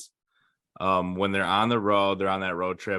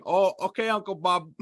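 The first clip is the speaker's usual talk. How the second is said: much higher, half-laughing mock answer; mock reply; 10 semitones higher than usual. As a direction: toss it back in a high, teasing voice. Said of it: "the guy's like".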